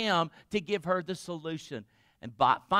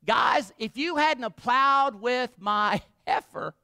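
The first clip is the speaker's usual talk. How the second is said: angry taunt; 6 semitones higher, 6 dB louder than usual. Acted. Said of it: "He says".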